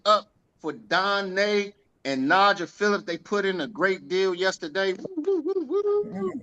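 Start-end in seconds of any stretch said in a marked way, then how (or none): 4.9-6.4 high cheering woo woo; excited whooping. Real, not acted. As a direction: cheer them on, high and bright. Cheering the team's big deal.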